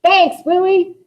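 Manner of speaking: a high, loud call-out; shouting out. Acted. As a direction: fling the thanks out bitterly. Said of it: "shouting out".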